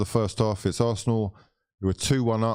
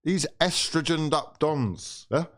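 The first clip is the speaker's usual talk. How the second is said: mocking drawl; 7 semitones higher, slower than usual. Real, not acted. Streamer taunting young rival fans in a slow, high mocking drawl.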